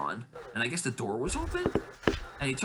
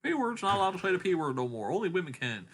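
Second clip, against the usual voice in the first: mock offended people; 7 semitones higher than usual. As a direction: whine it high, imitating people getting hurt. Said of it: "I don't want people to get all hurt".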